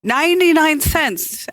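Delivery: weary cashier answer. Retold or imitated. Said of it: "the woman says".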